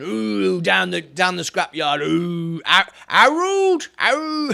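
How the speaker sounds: badly done, drawn-out delivery. Reacting to a comment about scrap yards: terrible Steptoe and Son impression. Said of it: "That's a terrible impression".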